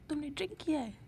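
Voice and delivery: ordinary delivery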